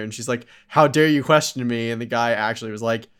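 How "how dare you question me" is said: mock indignant. Spy snaps at the officer.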